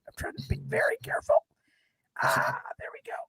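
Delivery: hushed whisper while moving gear; careful unvoiced whisper. Real, not acted. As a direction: breathe the words out, concentrating. Carefully moving his setup.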